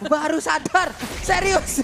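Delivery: high, loud surprised exclamation. Real, not acted. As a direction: blurt it out in surprise. Laughing realization.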